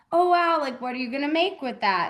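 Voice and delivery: playing the enthusiastic teacher, hammed up a little; mock teacher voice. Teacher talking to the kids.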